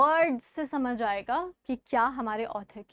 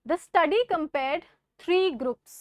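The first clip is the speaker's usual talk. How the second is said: objective reading; much slower than usual. Shown as a demonstration. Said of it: "ऑब्जेक्टिव है".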